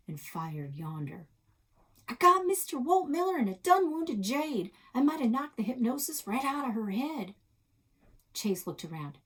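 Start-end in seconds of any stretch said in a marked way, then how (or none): 2.1-7.4 high, loud triumphant cry; hammed-up gunslinger bragging; excited cowboy shout. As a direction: crow about the shot like a Western hero. Shootout in pretend cowboy game.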